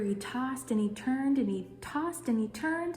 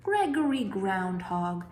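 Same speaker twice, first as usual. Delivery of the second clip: goose calling; 3 dB louder, slower than usual. Acted. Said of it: "Silly Goose called".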